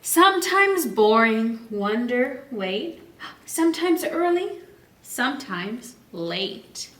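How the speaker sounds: slow, lilting rhyme reading; read-aloud storytime. Acted. Teacher reads the rhyme to her class, slow and lilting. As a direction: savour each line for the kids. Reads rhyming book text.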